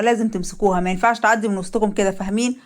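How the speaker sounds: giving orders to his men; gang leader. Acted.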